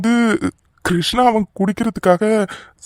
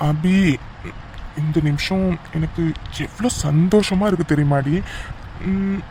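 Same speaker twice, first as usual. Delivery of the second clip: tender romantic; 3 dB quieter than usual. Acted. Husband close to wife at last, tender and intimate. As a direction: confess it tenderly, taking your time.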